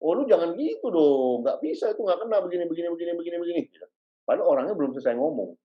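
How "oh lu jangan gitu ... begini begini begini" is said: impatient interrupting. Retold or imitated. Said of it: "waktu kita ngomong begini".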